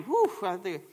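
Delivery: real exhaled "whew" to steady yourself; collecting yourself mid-sermon; catching breath. Real, not acted. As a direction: pause and blow out a breath. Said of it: "let me take a breath".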